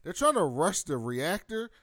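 lightly voiced shrugging security guy; casual security guard. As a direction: toss it off like an unbothered guard on the radio. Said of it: "And he's like".

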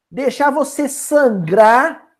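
usual speaking voice

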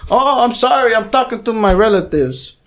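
high-pitched mock apology; apologetic roommate. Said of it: "And he's like".

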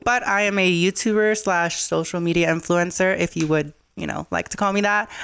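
talking while chewing gum; words around a wad of gum. Real, not acted. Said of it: "sorry that I have gum in my mouth".

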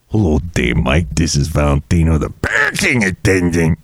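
deep valet character, hammed-up; low put-on voice.

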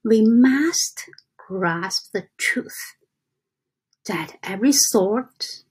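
slow, deliberate reading with pauses between phrases. Real, not acted. Reading a book passage to viewers so they get it, slowly. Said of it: "I read slowly".

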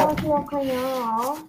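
glitchy jumping pitch. Real, not acted. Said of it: "your mic keeps on glitching out".

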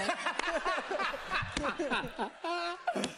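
high, breathy giggle at own joke. Real, not acted. Laughing at his own joke, high giggle. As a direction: laugh at yourself.

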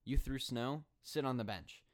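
a loud scolding bark from the teacher; mock angry teacher. Teacher scolding a kid who threw snow, mock angry. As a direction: call him out like a pissed kindergarten teacher. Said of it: "She blows her whistle and gets pissed".

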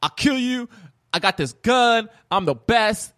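high-pitched mock boasting; gloating taunt. Retelling the character taunting the doll, gloating. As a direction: crow over a beaten enemy. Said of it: "gloats back".

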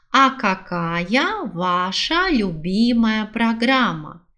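ordinary talk, nothing marked

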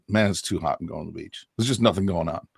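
flat California beach-dude accent, no space in the mouth; lazy Malibu accent. Shown as a demonstration. Dialect coach sketches a Malibu Californian accent. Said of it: "by the time you get to Malibu".

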